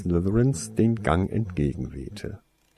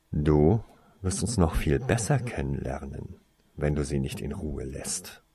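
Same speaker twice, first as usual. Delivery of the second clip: low, softer menace; threatening; 5 semitones lower, 3 dB quieter than usual. Acted. Older brother warning Tarsoin, quiet low menace. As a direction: lean in and warn him quietly. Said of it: "drohte jetzt der Ältere".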